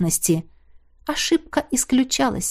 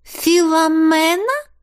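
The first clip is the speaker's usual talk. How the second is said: surprised; 6 semitones higher, 3 dB louder, slower than usual. A narrator's reading. Stunned recognition in the water.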